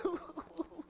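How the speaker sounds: soft, high mock sobbing; mock crying. Preacher acts out crying on the way to work, mock sobbing. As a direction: play at crying in little sobs. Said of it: "you just need to cry".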